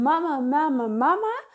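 lightly imitated nagging child; repeated call, lilting up at the end; child asking for mama. Coach voices a child begging for attention, insistent calling. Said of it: "Dat kind wat de hele tijd vraagt om".

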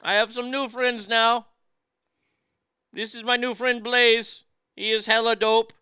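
Dirk surfer voice. Pretend. Continues as Dirk character.

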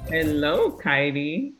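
ordinary talk

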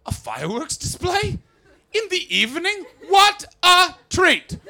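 high, delighted gasping with laughter; mock delight. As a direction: pretend this is a lovely surprise treat. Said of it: "sitting there going".

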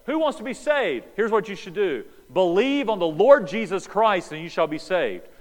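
hammed-up revival preacher; preacher's altar call. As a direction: call out like a pastor inviting the crowd. Imagined pastor's altar call.

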